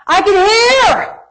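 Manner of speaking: high, drawn-out cry of amazement; overjoyed cry. Retold or imitated. Healed girl crying out that she can hear, overjoyed. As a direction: imitate her tearful joy, long and high. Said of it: "she is just weeping".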